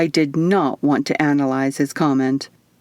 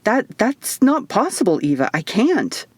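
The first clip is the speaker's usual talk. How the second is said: stumbling, rattled refusal; flustered stammer; 3 semitones higher than usual. Acted. Will refusing to take Eva home, flustered stammer. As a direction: sputter it out in a mild panic. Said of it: "He sputtered a few incoherent sounds".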